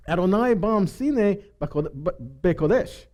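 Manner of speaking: slow, careful Hebrew "Adonai bam sine bekodesh"; Hebrew reading. Shown as a demonstration. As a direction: read the Hebrew out slowly, word by word. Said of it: "in the Hebrew, 'cause it reads".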